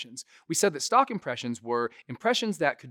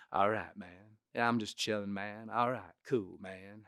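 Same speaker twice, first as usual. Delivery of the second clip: beach bum hippie; 3 semitones lower, 7 dB quieter than usual. Shown as a demonstration. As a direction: let each phrase drift off, chilled out. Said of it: "almost like beach bum, you know, kind of hippie".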